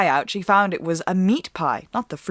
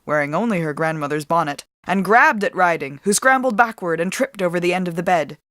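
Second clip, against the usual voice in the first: plain reading voice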